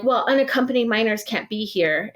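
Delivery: lightly voiced prim staffer; a hint of a prissy official; mimicked staffer. A light mock official voice quoting the staffer's excuse about her children.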